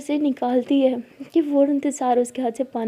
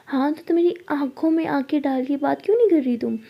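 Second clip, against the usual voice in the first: menacing whisper; 3 semitones higher than usual. Acted. Jaya whispering menacingly to Sara. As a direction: breathe the threat close.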